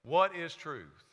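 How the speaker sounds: "What is truth?" spoken slowly at normal volume; slow emphatic question. Shown as a demonstration. Preacher repeating Pilate's question, slow and firm. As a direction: lean on "What", slow and deliberate. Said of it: "That was Pilate's question".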